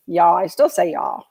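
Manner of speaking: a light Southern drawl on "y'all". Shown as a demonstration. Coach showing viewers her leftover Southern drawl. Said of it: "the Southern drawl out of me".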